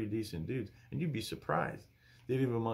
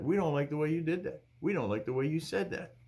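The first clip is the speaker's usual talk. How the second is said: lightly acted critics, pitched up then settling; a higher-pitched mock complaint, easing down by the end; complaining critics; 4 semitones higher than usual. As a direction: imitate fault-finders listing their objections. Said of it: "They're like".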